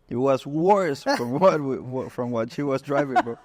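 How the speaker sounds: amused laughing disbelief; laughing through words. Real, not acted. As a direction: laugh while telling the blunder. Laughing at own bad purchase.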